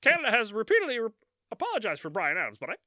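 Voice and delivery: hammed-up South Park Canadian. Host jokes that Canada apologized, loud mock Canadian. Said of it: "or you go South Park with it".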